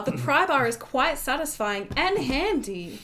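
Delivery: put-on sing-song voice for a small child; gentle, over-patient kid-talk; talking to a preschooler. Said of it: "He sounds like he's talking to a preschooler".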